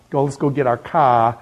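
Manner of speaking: imitated Boston accent, dropped r. Imitating someone off to fetch the car, Boston accent. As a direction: lightly mimic a Bostonian. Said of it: "you know they're from Boston".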